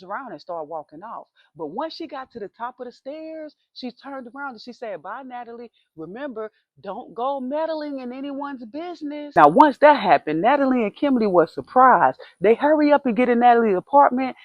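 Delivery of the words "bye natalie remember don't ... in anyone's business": ominous warning. Retold or imitated. Neighbor's parting warning.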